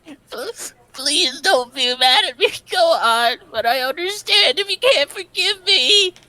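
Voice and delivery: tearful, apologetic sob; crying. Acted. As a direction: beg forgiveness while crying. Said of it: "his crying voice".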